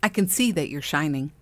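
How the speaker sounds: imitating a gushing admirer, lightly voiced; a light mock of someone gushing "I can see that you're shining". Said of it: "in that voice".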